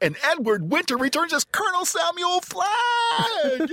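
very high, lively, rising, enthusiastic announcer energy. Asked for a little more enthusiasm, showing it: enthusiastic delivery. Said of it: "A little more enthusiasm, if you please. Like this".

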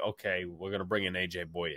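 ordinary delivery

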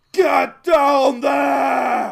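very high-pitched, very loud, rough bellow. Game master voices Slicer, heard from inside, bellowing at the players. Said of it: "you hear a bellow".

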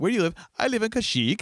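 terrible put-on Swedish accent. Trying out how a question and answer would sound, in a bad Swedish accent. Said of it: "like if you had a Swedish accent".

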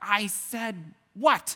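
high, slow, loud yelling.

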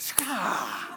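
mock hostile snapping. Describing Southerners who seem sweet until you get behind it: mock hostile snap. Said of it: "and they're like".

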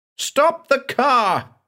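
screaming, pitched way up, shrill. Banks, beside the driver, suddenly grips his shoulder: screaming. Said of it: "he screamed".

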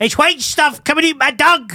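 very high, very loud, shrill, swooping scream. Retelling a scene with junkies on some steps, imitating a woman screaming. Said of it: "the woman starts screaming".

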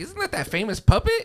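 put-on very high, tipsy, drunk party-girl voice. Retelling what a drunk woman said on seeing the puppet: imitating a drunk woman. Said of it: "drunk white girl comes up to me".

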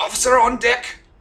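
put-on shrill, very loud, high, accented barked shout. Voicing ghost soldiers snapping to attention and saluting: put-on accent, barked order. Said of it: "making me do an accent like this".

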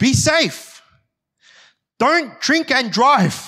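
very high, slow, drawn-out top-of-the-lungs yell. Retelling her mum running out as she left the house, retelling a mum's yell. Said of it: "she yells at the top of her voice".

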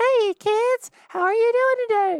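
shrill, sky-high, very loud cartoon voice. Explaining voice types, the speaker demonstrates a really high voice; Mickey Mouse voice. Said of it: "really high like Mickey Mouse".

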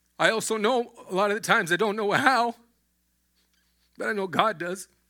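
teary voice, on the edge of tears. Speaking about believing in god, the speaker is tearing up. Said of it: "Excuse me if I'm tearing up".

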